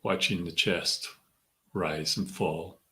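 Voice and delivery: measured meditation guide, long pauses between phrases; guided meditation. Acted. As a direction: ease them inward, leaving room to breathe. Leads a centering meditation.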